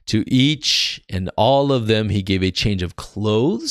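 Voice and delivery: emphatic narrative Bible reading; scripture reading. Acted. Preacher reading how Joseph supplied his brothers, emphatic scripture reading. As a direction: read the verses out to listeners.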